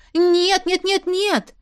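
high, loud stream of nos; flustered stop-it protest; frantic no. A narrator's reading. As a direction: cut her off in alarm. Heroine stops the friend.

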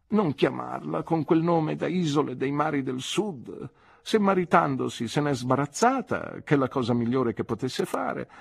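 a hint of a formidable spinster laying down the law; brisk stern aunt. A narrator's reading. Aunt correcting the nephew about Peggotty's name, lightly voiced and imperious. Aunt's lines voiced by narrator.

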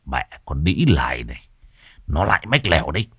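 grumbling swear under the breath, fast; muttered curse. Acted. Son grumbles a curse about the tattletale, fast. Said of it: "lầu bầu chửi thề".

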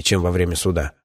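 usual speaking voice

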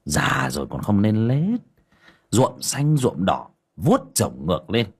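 the master mocking his dyed-hair old friend, sneering; scoffing. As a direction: scoff at him with open contempt. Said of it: "Cậu Tẩy bĩu môi".

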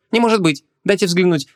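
high-pitched, affronted disbelief; indignant. A narrator's reading. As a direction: demand to inspect the tag. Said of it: "зацокал языком возмущённый продавец".

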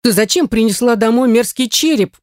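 mildly outraged at the skull; a touch of revulsion; indignant. A narrator's reading. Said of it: "возмутилась Герта".

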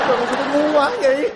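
hammed-up self-pitying wail; crying in regret. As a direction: bewail your own foolishness tearfully. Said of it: "Thôi đừng có khóc nữa". (vừa khóc vừa tự trách)

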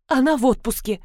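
usual speaking voice

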